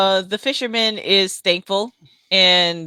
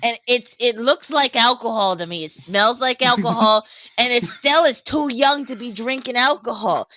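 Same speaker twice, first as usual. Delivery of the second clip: higher, chummy adventurer voice; cheerful character voice; 4 semitones higher than usual. Acted. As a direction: play it friendly and pitched up.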